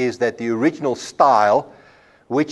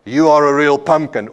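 a different tone; 2 semitones higher, 5 dB louder than usual. Shown as a demonstration. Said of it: "my voice in different tones".

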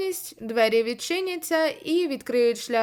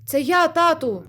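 louder, higher cry to the father; pleading call; 5 semitones higher, 6 dB louder than usual. Acted. The boy crying out to his cursed father, higher and louder. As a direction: make him hear you, pleading.

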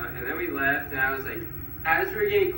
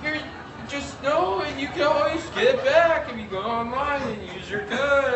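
much higher, mock feminine customer-service voice; woman-like guy; 11 semitones higher than usual. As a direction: squeak it up like the agent he took for a woman. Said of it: "this guy who I thought was a woman".

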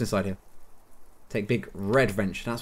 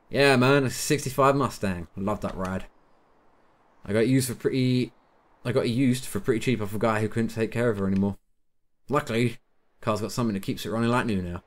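lightly put-on American character voice; American accent. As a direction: play him with an American accent. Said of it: "gone into some sort of weird American accent with him".

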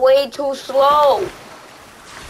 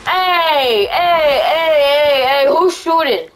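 panicked yelling; 3 semitones higher, slower than usual. Real, not acted. Under fire, yelling.

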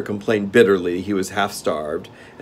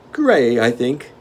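gnome king; 5 semitones higher, 8 dB louder, slower than usual. Acted.

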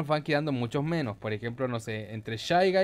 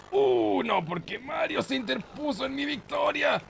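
surprised outcry; 10 semitones higher than usual. Real, not acted. Mario steals his win.

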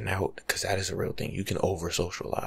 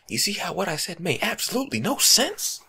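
higher, louder amused aside; 10 semitones higher, 7 dB louder than usual. Real, not acted. ASMR host breaking the bit, amused and higher. Laughing at own nonsense.

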